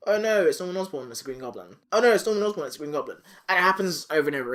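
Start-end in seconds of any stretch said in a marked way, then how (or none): 0.1-1.1 higher, alarmed Norman side of a back-and-forth; mock panic, pitched up; alternating persona. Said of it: "back and forth". 1.1-1.8 lower, softer Goblin side of a back-and-forth; alternating persona. Retold or imitated. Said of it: "back and forth". 1.9-2.7 higher, alarmed Norman side of a back-and-forth; mock panic, pitched up; alternating persona. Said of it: "back and forth". 2.7-3.2 alternating persona. Retold or imitated. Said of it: "back and forth".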